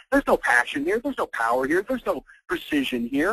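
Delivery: ordinary talk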